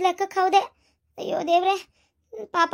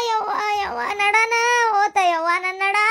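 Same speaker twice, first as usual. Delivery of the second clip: slow, whimpering moans of pain; pained wailing. Acted. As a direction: wail over a hurt back. Fallen woman wails about her back. (ನೋವಿನಿಂದ ನರಳುವುದು)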